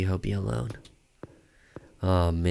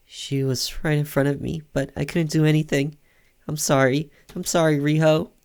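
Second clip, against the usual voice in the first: higher-pitched, mildly tearful apology; crying character; 5 semitones higher than usual. Acted. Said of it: "Don't cry".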